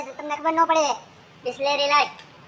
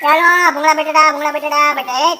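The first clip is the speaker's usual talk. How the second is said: hawker call. Acted. Vendor hawking again.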